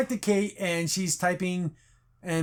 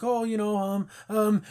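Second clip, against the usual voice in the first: mock hesitant stalling, higher pitched; halting, evasive stammer, playfully acted; ums and stammering; 5 semitones higher than usual. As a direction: imitate someone fumbling for words. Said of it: "ums and uhs and stammering".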